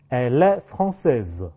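"Elle est" run together as è-lè, slowly; linked French enchaînement. Shown as a demonstration. Teacher gives an example sentence for linking, slow and joined. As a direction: slowly say "Elle est française" with the l of "Elle" carried onto "est". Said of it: "跟后面一个单词的词首的元音合成一个音节".

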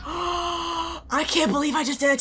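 high, slow, drawn-out wail; disbelieving wail. Real, not acted. Player to the opponent they just killed, disbelieving wail. Mock apology after a kill.

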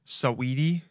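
a rapper's name said suh-WEE-tee; name pronunciation. Shown as a demonstration. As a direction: say the name with the middle syllable leading. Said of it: "That's how you say it".

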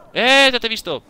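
startled gamer yell; sudden shout. Real, not acted. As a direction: bark it at the enemy you spotted. Spots an enemy.

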